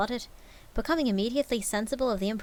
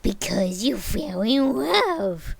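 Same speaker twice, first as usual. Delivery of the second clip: growled; 6 dB louder, much slower than usual. Acted. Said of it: "growled Scrooge".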